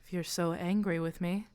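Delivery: lightly voiced, coolly provoking the child; taunting illusion.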